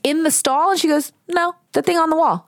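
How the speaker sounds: retold shock. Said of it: "And I was like".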